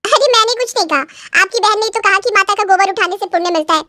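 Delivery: a hint of an innocent-sounding protest; protesting daughter-in-law. Bride defending herself to her husband, mildly protesting.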